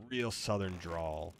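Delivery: slow, stretched-out southern drawl; slow southern-style lengthened words. Shown as a demonstration. Demonstrating the drawl while requesting it.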